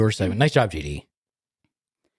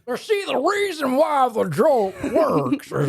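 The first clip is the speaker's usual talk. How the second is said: high, squeaky talk through real laughter; slow, high words squeezed out between laughs; helpless laughing; 8 semitones higher, much slower than usual. Real, not acted. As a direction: try to explain while cracking up. Cracking up while explaining the joke.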